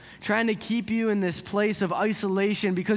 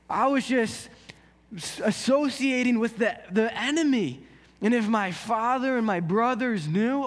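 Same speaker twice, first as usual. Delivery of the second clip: higher, anxious inner voice; a guilty young prince catching his breath; panicked prince; 4 semitones higher than usual. Acted. Prince alone after the ride, higher anxious worry.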